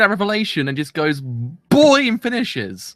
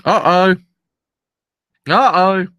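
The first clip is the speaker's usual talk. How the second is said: excited anime fan; 4 semitones higher, 6 dB louder, slower than usual. Real, not acted. Reacting to anime twist.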